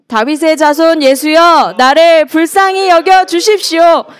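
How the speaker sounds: high, slow, full-voiced plea; drawn-out shout, every phrase pushed hard; loud crying out. Shown as a demonstration. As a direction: call out for mercy over a crowd. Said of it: "조금 큰 목소리로 한번".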